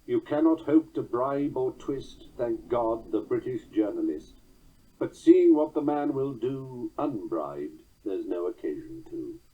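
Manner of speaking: slow, pointed satirical verse; measured, wry verse recital; comic verse reading. Shown as a demonstration. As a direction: land the joke in the last line. Reads comic verse example.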